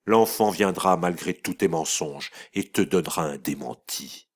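voix dure qui monte jusqu'au cri; brutale. A narrator's reading. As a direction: jette l'accusation sans pitié. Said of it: "brutalement elle ajouta". (mère brutale qui exige le nom du coupable)

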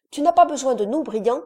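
put-on a boy ready to help; offering boy. A narrator's reading.

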